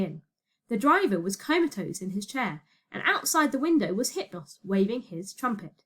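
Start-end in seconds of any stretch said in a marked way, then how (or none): none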